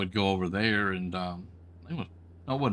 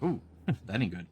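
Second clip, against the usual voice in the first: a nervous laugh breaking through the words; 4 dB quieter than usual. Retold or imitated. Trucker retelling his answer to the scale officer, laughing. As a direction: chuckle it out, half worried.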